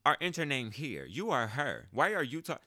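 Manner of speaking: put-on high incredulous teen protest; indignant disbelief. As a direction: squeal it, baffled and offended. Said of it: "That's how I felt".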